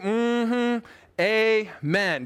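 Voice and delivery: great big, drawn-out mm-hmm, amen; great big response. Shown as a demonstration. Pastor urges listeners at home to respond, great big amen. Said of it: "great big".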